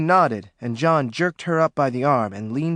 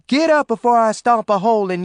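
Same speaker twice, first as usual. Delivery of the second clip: a moderate yelled threat, higher; 6 semitones higher, 5 dB louder than usual. Acted. John yelling at Maureen down in the bayou. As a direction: bark it down at her. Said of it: "John yelled".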